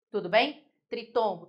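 usual speaking voice

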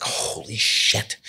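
slow, breathless whispered holy shit; stunned whisper. Retold or imitated. Racer stunned after finishing fourth on day one, whispering. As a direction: let it out under your breath, aghast.

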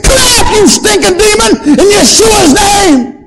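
high, loud commanding shout, slowing at the end; shouted exorcism. Retold or imitated. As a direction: cast it out at full voice. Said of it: "all the screaming going on".

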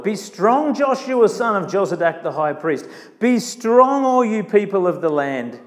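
rallying scripture exhortation; pep talk. Retold or imitated. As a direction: lift each call, then settle on the names. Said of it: "this is a pep talk".

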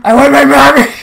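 loud, high calls for mom; hammed-up panic, crying for parents; mock scared child. Chased by monster, calls parents.

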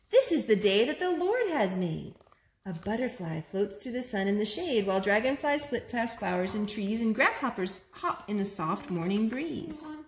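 lilting picture-book read-aloud; reading to children. Acted. Mother reading a picture book aloud to her boys, lilting. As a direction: read it like a bedtime story for small kids.

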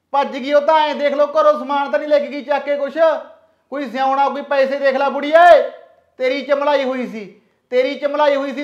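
angry scolding. Acted. Son-in-law scolding his mother-in-law over the runaway daughter, loud and angry. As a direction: lay into the old woman, blaming her.

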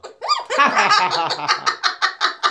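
long high-pitched giggle; high laugh. Real, not acted. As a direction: let a giggle ride up high. Laughing at viewer list.

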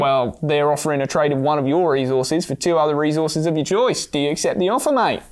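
lightly voiced mock Australian, mate at the end; casual mock Aussie rereading the offer; mock Australian trader pitching a deal. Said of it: "Should I do Crocodile Dundee?".

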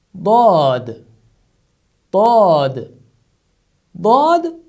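"Dad" loud, with a heavy emphatic d. Shown as a demonstration. Teacher drills the letter dad, loud and emphatic. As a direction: punch "Dad" with a dark, thick d. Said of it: "The other character is".

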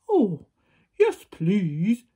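loud giant voice, pleased; delighted giant. A narrator's reading. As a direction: accept gladly in a big giant voice. Giant happily accepts.

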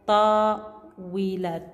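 طاولة stretched very slowly with tanween; slow demo word. Shown as a demonstration. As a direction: spell out طاولة slowly for pupils. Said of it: "مثل".

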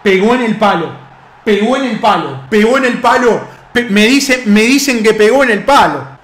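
same phrase building from subdued to emphatic; growing incredulous protest; mounting disbelief. Real, not acted. Repeats near miss in growing disbelief.

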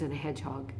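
ordinary delivery

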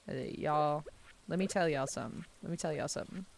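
light Southern twang; understated Southern phrasing; Southern drawl. Shown as a demonstration. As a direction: let a mild Southern accent slip in. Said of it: "it does come out when I say".

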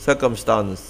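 circumstance with British vowels, ending in a crisp "stans"; British pronunciation. Shown as a demonstration. Teacher demonstrates the British reading of circumstance. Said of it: "dòng Anh là".

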